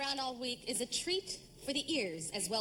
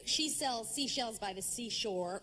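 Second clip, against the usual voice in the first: slow tongue twister; 5 semitones lower, slower than usual. Shown as a demonstration.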